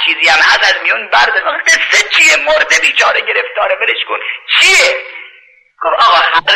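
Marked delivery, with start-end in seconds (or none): 1.5-5.0 high anguished questions; pleading. Retold or imitated. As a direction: plead for the poor dead man. Butcher pleads for dead man.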